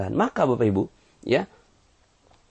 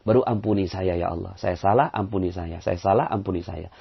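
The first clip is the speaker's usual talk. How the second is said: humble confession; 5 semitones lower than usual. Shown as a demonstration. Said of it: "ngaku salah".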